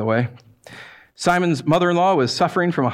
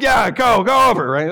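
pushy shout; 5 semitones higher, 4 dB louder than usual. Pretend. Satan pushing minion.

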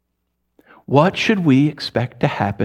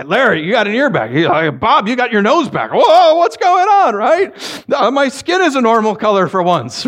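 hammed-up astonished whoop; amazed excitement; 8 semitones higher than usual. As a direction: marvel like a man who just got his nose back. Lepers discover they're healed.

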